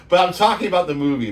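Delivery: fast, laughing "talking about the movie"; laughing repeat. Real, not acted. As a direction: insist again through laughter.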